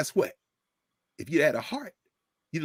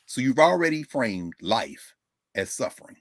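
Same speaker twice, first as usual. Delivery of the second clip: ordinary delivery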